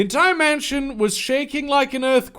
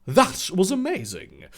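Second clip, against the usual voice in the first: put-on southern accent. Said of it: "southern accent because he is from South Carolina".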